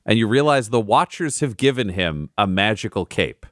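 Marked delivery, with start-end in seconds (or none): 0.1-2.3 slow, hushed scene setting; story narration. A narrator's reading. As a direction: paint the scene slowly. DM narrates magical reveal.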